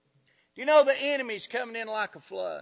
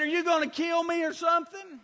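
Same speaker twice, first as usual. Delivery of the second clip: higher, quick, mildly alarmed question; scared retold question; 5 semitones higher, faster than usual. Startled woman on the street to approaching stranger, mildly scared. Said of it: "She was scared to death".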